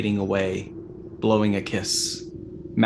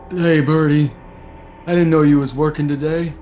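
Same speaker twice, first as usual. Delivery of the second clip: a louder, higher, breezy voice; cheerful chef voice; 5 semitones higher, 6 dB louder than usual. Acted. The dazed chef greets the woman standing over him, casually. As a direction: greet her casually like nothing happened.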